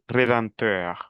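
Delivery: "Rédempteur" slowly, with a nasal vowel in the middle; nasalization. Shown as a demonstration. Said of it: "Aquí tenemos nasalidad". ("Rédempteur" lento, con vocal nasal)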